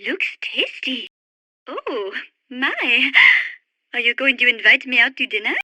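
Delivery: low, sultry teasing; flirtatious. Acted. Flirting over food.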